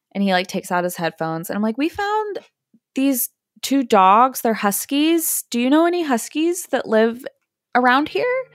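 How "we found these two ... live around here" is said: sweet polite voice. Retold or imitated. Politely questioning a stranger.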